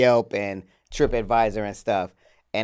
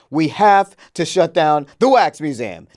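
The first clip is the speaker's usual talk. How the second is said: slow, louder attempt at a British accent; a boss in a British accent, loud and slow; bad British accent; 4 semitones higher, 6 dB louder, slower than usual. Retelling the angry boss's big meeting, in a bad British accent. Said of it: "this is not a British accent at all".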